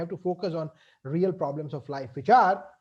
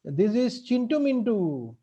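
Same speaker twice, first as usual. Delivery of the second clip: kindly gentleman; 2 semitones higher than usual. Acted. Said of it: "one gentleman came to him and said".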